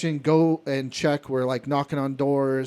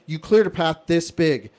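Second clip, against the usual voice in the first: louder, higher mock lecture; retold exasperated scolding; 4 semitones higher, 6 dB louder than usual. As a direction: rub his face in the numbers. Scolding coworker over his work.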